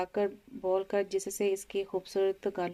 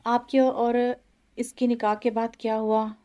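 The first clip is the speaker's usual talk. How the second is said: tearful; 3 semitones higher, 6 dB louder than usual. A narrator's reading. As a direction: push the question through tears. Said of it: "वो अपने आंसू पूछते हुए बोली".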